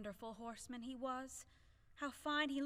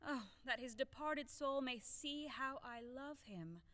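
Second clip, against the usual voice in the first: tearful; 2 semitones higher, 4 dB quieter than usual. Acted. Widow mourning her dead husband.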